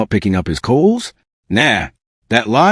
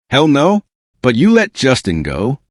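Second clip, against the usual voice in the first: incredulous; 3 semitones higher than usual. Real, not acted. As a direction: throw the words back in disbelief. Disbelieving retort to Usher.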